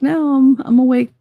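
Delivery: high, loud insistent no I'm awake; mock protest. Daughter insisting she is awake, high and loud. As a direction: play the sleepy kid swearing she's awake. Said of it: "she's like".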